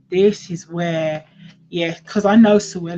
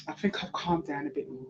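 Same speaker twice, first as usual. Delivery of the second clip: lower, much softer, quick murmur; calmed down; 5 semitones lower, 14 dB quieter, faster than usual. Real, not acted. Reader settling after getting worked up, calmed down. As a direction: say it low and softly, settling down.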